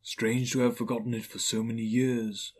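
lightly voiced airy spirit; understated ghostly musing. Ghost observes Scrooge's forgetting.

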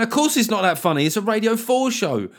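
comic retelling his comeback to the heckler; sarcastic retort. Retold or imitated. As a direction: toss it back with sarcasm. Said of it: "I went".

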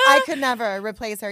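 high laughing talk. Real, not acted. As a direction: laugh through the line. Laughing while talking.

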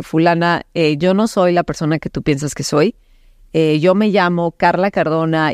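even, measured self-introduction; composed retold explanation; very calm. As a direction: calmly reason with an agitated person. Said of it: "empecé con mucha calma a decirle".

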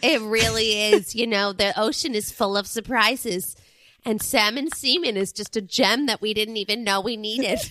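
put-on comic character voice; Chris. Co-host asked for the bit, hammed-up character voice. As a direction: reminisce in a lightly put-on persona. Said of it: "do it in your Chris voice".

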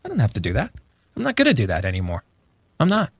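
high, light mock voice of someone taking back control; acting out a freed person saying no; empowered retort. Host voicing a listener who finally refuses, mild mock. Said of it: "you're empowered and free to be like".

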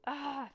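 short high scream; frightened shriek. Acted. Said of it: "Frank screamed".

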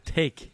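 "tick" for thick, hard t in place of th; blunt Munster "tick"; Munster pronunciation. Shown as a demonstration. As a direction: correct the listener with Munster "tick". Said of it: "I have a typical Munster accent".

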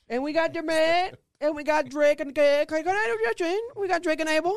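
high, stammering put-on Canadian voice; mock Canadian accent. Roasting the Canadian artists on a podcast, in a high mock Canadian accent. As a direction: ham a bad Canadian accent, stumbling on the name. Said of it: "You'll be a bad racist".

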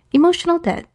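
"debt" said her own way, pitched high; defiant own pronunciation. Shown as a demonstration. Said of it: "it's gonna keep going that way".

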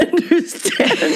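very high, laughing mock voice; squeaky self-parody. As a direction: squeeze it up into a silly falsetto. Parodies her own sickening voice.

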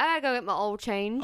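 "oil" said the Southern way; Southern accent. Shown as a demonstration. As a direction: show a mild Southern accent. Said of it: "what's a Southern thing".

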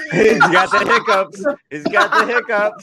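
laughing while saying it; giggling through the words. Real, not acted.

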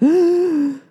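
high startled gasp at a cute man; a loud, breathless intake of delight; sharp gasp. Retold or imitated. Seeing a handsome man on the stairs, gasping. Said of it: "I was like".

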